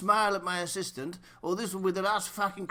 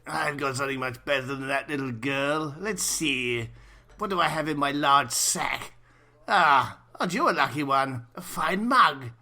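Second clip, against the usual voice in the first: jolly Santa voice; 6 semitones lower than usual. Acted. Plays jolly Santa to child.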